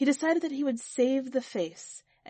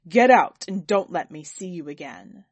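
loud, lower-pitched angry order; raging; 4 semitones lower, 8 dB louder than usual. A narrator's reading. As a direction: throw him out with a forceful, narrated rage. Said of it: "He raged at the painter".

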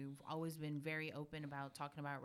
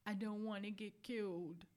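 put-on child's fear; 4 semitones higher than usual. Retelling crying child's words.

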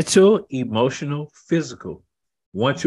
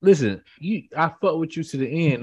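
excited protest; 5 semitones higher than usual. Real, not acted. Defensive protest again.

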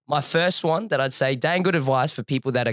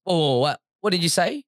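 puzzled server; 5 semitones higher than usual. Retold or imitated. Retold startled server at Subway.

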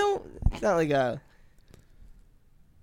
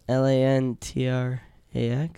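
slower letter-by-letter repeat; spelling it out; 3 semitones lower, 6 dB quieter than usual. Shown as a demonstration. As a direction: spell each letter slowly. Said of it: "Say that again?".

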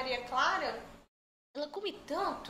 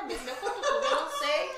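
laughing; 3 dB louder than usual. Real, not acted. Laughing admitting she gossips.

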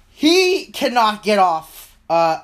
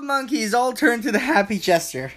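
warbling, breaking-up online voice; words stuttering through a bad connection; glitchy call audio; 5 semitones higher than usual. Real, not acted. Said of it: "It's still glitching out".

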